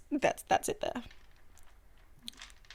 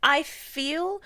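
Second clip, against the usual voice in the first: creaky fry, softer, sentences lifting at the end; vocal fry with rising ends; 4 semitones higher, 6 dB quieter than usual. Shown as a demonstration. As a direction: put on the fry and the upward lilt, then fade out. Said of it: "sounding like this".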